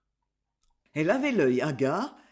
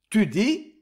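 louder startled question; shocked cry; 3 semitones higher, 4 dB louder than usual. Acted. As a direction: blurt it out in shock. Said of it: "cria-t-il".

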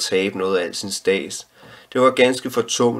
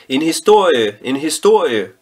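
put-on high, loud eager children's cry; children shouting; 7 semitones higher, 6 dB louder than usual. A narrator's reading. Children begging the storyteller for a story, loud high shout. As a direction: shout it out like excited kids begging. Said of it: "råbte børnene".

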